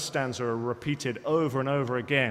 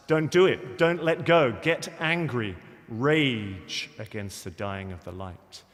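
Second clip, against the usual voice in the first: crying out; 5 dB louder, slower than usual. Retold or imitated. Poet pleads with his father not to give in to death, crying out. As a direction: cry out a warning, then draw out the final rage. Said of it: "the poet cries out into the blackness".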